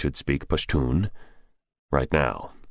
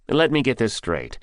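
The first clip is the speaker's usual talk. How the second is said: brusque; 6 semitones higher than usual. Acted. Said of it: "Silverhair said brusquely".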